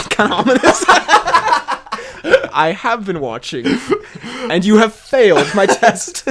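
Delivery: slow, weighty mock-villain pronouncement; mock menace, each word drawn out with a laugh near; ominous villain. Host twisting a fan's comment into a threat, ominous.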